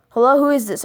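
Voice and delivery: anxious loud question into the phone; a touch of nerves; nervous. Retold or imitated. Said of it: "I said nervously".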